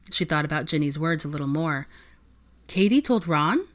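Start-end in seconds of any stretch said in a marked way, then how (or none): 2.7-3.7 pointed question. Acted. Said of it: "let the question float out there".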